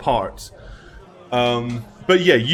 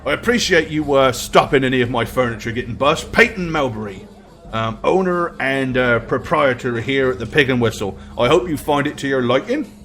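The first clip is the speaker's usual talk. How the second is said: lightly voiced, easygoing innkeeper; chatty innkeeper; 2 semitones lower than usual. Innkeeper telling a customer about the dwarf, chatty. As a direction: answer like a local publican.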